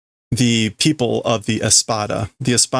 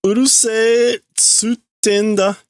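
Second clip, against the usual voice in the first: raised, slow angry snap; angry retort; 11 semitones higher, much slower than usual. Acted. Irritated boy telling them to shut up, mock angry. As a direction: snap back hard and slow. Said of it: "Anger mark".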